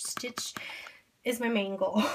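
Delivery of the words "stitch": whispered name. Real, not acted. Repeating wish word softly.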